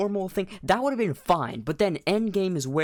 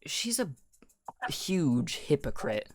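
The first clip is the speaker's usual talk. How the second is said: whispered; 4 dB quieter than usual. Real, not acted. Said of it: "whispered aside".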